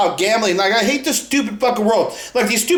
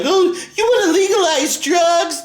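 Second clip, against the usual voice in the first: mocking whine; 8 semitones higher than usual. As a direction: mimic a scandalised critic, laughing. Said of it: "they wanna cry about shit like".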